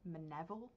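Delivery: "Mineville" as muh-NEV-ul, questioning; softly tested "Mineville", said muh-NEV-ul; trying a pronunciation. Shown as a demonstration. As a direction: try "Mineville" with the middle stressed, muh-NEV-ul. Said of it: "how to pronounce this".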